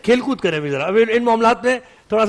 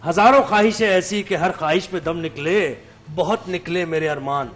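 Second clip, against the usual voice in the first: poetry recital; slower than usual. Acted. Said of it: "غالب نے کیا خوب کہا ہے".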